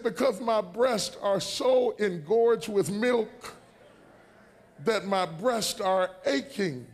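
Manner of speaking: slow, drawn-out complaint; plaintive wife. Retold or imitated. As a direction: stretch it out like she's in pain. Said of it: "She said".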